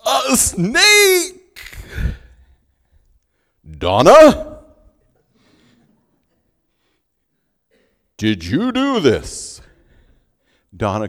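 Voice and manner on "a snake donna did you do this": much higher and louder, crying out; startled cry. Retold or imitated. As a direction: shriek on seeing the snake. Professor spots the snake.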